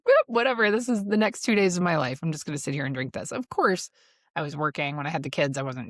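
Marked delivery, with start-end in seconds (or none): 0.0-3.3 carefree shrug. Retold or imitated. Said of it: "just be like".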